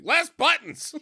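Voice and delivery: high-pitched yelped demand through laughter; mock panicked woman. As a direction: yelp it as a frantic character, cracking up. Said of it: "'cause she's like".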